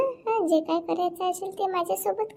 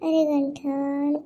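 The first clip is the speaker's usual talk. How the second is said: slow coaxing call; 5 semitones lower, 4 dB quieter, much slower than usual. Acted. Seductive woman coaxing Ganthan.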